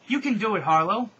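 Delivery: loud, high cheer; acted rallying yell; screamed encouragement. A narrator's reading. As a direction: shout them on from afar. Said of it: "they screamed".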